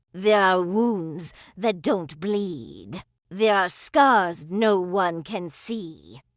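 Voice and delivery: slow, measured delivery with weight on each phrase; slow and deliberate. Real, not acted. Woman opening her story to doubting listeners, slowly. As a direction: say it slowly so every word lands. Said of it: "let me say this slowly".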